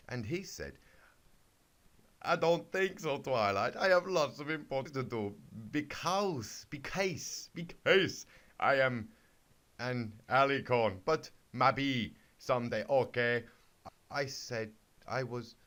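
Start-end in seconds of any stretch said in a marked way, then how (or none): 2.2-13.4 suave alicorn. Acted. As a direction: croon it like a dreamy prince. Alicorn turns Twilight down.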